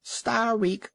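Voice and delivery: high shrill taunting yell from the crowd; jeering scream. A narrator's reading. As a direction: scream it like a whole colony of birds mocking. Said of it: "yelling and screaming".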